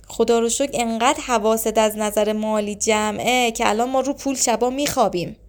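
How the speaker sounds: mock-grateful marital dig; sarcastic. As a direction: act out a mildly sarcastic jab at a spouse. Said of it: "با کنایه حرف زدن".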